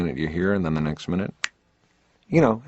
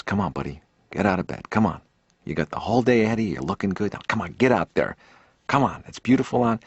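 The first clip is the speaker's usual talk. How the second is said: gentle coaxing. Retold or imitated. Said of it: "a human voice that maybe says".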